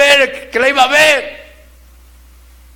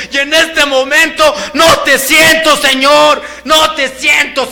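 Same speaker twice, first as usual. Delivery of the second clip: raised, pleading voice crying out to God; anguished cry to God. Retold or imitated. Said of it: "me pongo a llorar ahí como niño".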